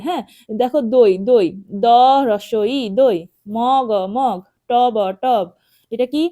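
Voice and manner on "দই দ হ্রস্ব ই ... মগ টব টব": দই, মগ, টব sounded out in parts, then whole; spelling drill. Shown as a demonstration. Teacher modelling for pupils to repeat, spelling drill. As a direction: stretch each letter, then blend into দই, মগ, টব. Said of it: "এভাবে বলতে হবে".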